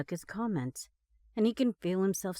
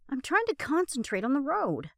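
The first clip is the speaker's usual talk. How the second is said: cross grunt; 6 semitones higher, 3 dB louder than usual. Acted. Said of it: "Ross grunts crossly".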